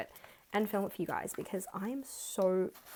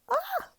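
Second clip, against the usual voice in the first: short high loud squeal; excited squeal; 5 dB louder than usual. Real, not acted. Vlogger seeing her travel fund, sudden high squeal. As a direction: squeal with delight.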